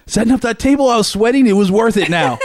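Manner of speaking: high, loud, worked-up announcement; reenacted victorious declaration. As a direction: proclaim it proudly to the presenters. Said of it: "This is what I said".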